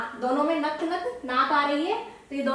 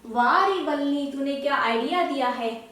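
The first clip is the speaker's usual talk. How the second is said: slow delighted exclaim. Retold or imitated. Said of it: "तो क्या कहती है?".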